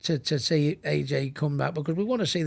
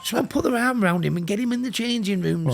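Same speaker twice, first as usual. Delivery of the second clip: urgently calling for help, higher pitch; 7 semitones higher, 4 dB louder than usual. Retold or imitated. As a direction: plead for someone to step in. Urging someone to intervene, retold.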